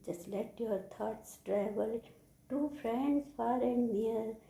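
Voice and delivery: slow, measured verse; poem recitation. Shown as a demonstration. Teacher reciting the poem for children, slow recitation. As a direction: recite it with long, held words. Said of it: "I am going to recite the poem".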